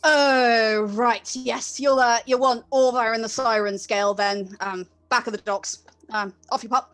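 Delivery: quick, chirpy dismissal; lightly voiced busy clerk; brisk clerk. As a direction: shoo them off briskly.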